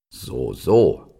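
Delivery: stag softening slightly in manner; measured, understated friendliness; a little friendlier. A narrator's reading. Stag takes in the young deer's plea, a little friendlier. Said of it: "seine Stimme klang ein wenig freundlicher".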